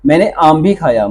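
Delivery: "आम भी" पर ज़ोर; stress on आम. Shown as a demonstration. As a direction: object उभारकर "आम भी". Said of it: "आम पर जोर है". ("आम" पर ज़ोर)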